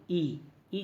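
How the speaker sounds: long, drawn-out "ई"; long vowel. Shown as a demonstration. Teacher showing students how the vowel is pronounced, long "ई". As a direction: hold "ई" as a long ee sound. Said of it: "दीर्घ बोलते हैं".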